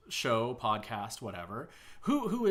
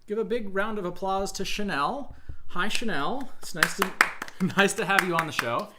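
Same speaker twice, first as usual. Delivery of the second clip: loud, high-pitched host introduction; big, raised-voice talk show opening; show host welcome; 7 semitones higher, 8 dB louder than usual. Acted. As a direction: welcome the guest to big applause. Host opens show, presents guest.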